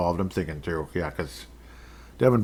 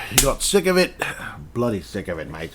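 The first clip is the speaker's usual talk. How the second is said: put-on Aussie accent. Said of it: "my Aussie accent".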